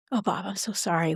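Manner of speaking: gentle, sincere. Shown as a demonstration. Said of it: "say the thing that matters the most".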